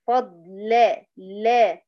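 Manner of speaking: فضل broken up, ending in a clear open la; open lam. Shown as a demonstration. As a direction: isolate the la after فضل with a true a. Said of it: "يعني اللام مفتوحة".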